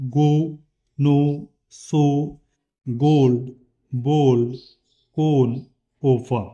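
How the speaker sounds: "गो" "नो" "सो" with a long rounded o; long o demo. Shown as a demonstration. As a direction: round the o in each word. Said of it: "ओ मध्ये बघा". (गोल लंबा ओ का उच्चार)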